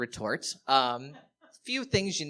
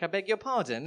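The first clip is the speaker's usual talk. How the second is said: higher-pitched mock-British indignation; put-on British accent; 6 semitones higher than usual. Fake Brit challenged on his geography, in a British accent. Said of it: "pulling out my British greatest hits".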